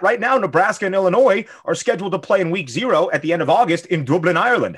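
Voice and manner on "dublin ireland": put-on Irish accent. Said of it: "How do you think my Irish accent is".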